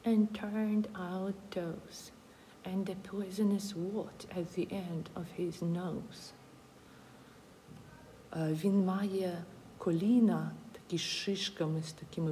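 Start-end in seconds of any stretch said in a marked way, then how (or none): 0.0-6.3 slow, spooky storybook read; lingering over each scary detail; reading to children. A narrator's reading. Mouse describes the gruffalo, reading. (повільне казкове читання)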